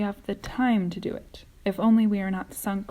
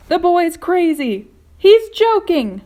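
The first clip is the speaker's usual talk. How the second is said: outraged; 11 semitones higher, 13 dB louder, slower than usual. A narrator's reading. Earthworm protesting in alarm.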